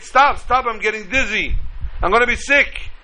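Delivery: high, desperate begging. A narrator's reading. Dizzy teacup begging the master to stop. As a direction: plead high to stop the spinning. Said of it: "I begged".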